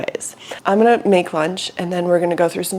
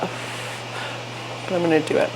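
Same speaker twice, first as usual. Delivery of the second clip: whispered; 9 dB quieter, slower than usual. Real, not acted. About to eat hot food.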